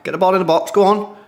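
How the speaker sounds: willing the attack on; excited urging. Real, not acted. Streamer urging Australia on during the match, excited cheer.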